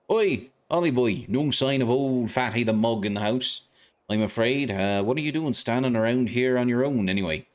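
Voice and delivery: a hint of a cocky little lantern-nosed fairy; cheeky fairy sidekick. Fairy sidekick greeting the boy in the street, chirpy.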